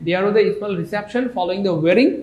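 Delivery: every word of the English sentence read out slowly and clearly; slow dictation. Shown as a demonstration. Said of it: "teacher reads example slowly". (ধীরে ধীরে, প্রতিটি শব্দ আলাদা করে পড়া)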